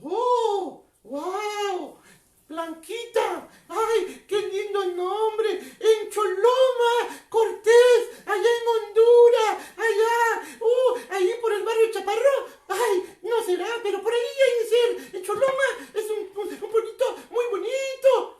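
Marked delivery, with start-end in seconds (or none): 5.8-12.5 louder, slow proclaiming of the place; shouting out a viewer's hometown; excited call-out. Real, not acted. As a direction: announce the town with pride.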